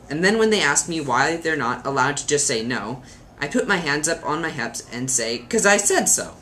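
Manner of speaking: put-on lilting children's poem recital; mildly theatrical verse reading. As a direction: read a funny poem with lively emphasis. Reads a poem aloud.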